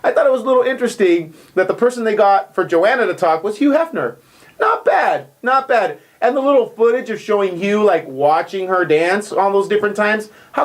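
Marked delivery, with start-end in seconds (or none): 4.6-6.0 suggestive. Real, not acted. Reacting to Hugh Hefner cameo.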